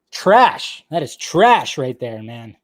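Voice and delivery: disgusted rant, leaning hard on "trash"; fired up. Real, not acted. Streamer condemning an article to viewers, fired up. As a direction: drag out the verdict with real heat. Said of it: "Got a little fired up right there".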